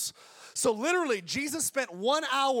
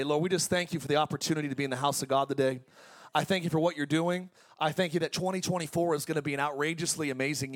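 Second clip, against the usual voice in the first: prayer. Acted. Pastor praying over his congregation, fervent. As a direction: lead the church in prayer.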